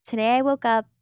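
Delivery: light influencer day-in-life lilt; a hint of lifestyle influencer. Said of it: "is, like".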